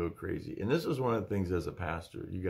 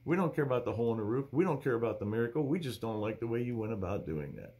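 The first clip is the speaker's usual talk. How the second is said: lightly acted critics, pitched up then settling; a higher-pitched mock complaint, easing down by the end; complaining critics; 4 semitones higher than usual. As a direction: imitate fault-finders listing their objections. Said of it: "They're like".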